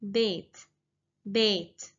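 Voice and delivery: بيت said short, as bit; Qatari word. Shown as a demonstration. Teacher modelling Qatari word for house. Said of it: "But in Qatari dialect".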